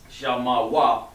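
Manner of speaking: Shah ma wa spelled out slowly, one syllable at a time; slow dictation pace. Shown as a demonstration. Teacher sounding out letters as he writes them. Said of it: "he has the ma like this".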